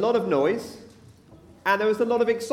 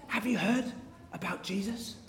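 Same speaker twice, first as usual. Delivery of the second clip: hushed, secretive rumour; little whispers; 11 dB quieter than usual. Acted. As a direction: whisper it as news passing through a crowd. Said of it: "Little whispers".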